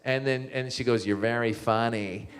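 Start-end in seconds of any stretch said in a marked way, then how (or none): 1.0-2.3 Mitzi's voice. Retold or imitated. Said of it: "And that's how she talks".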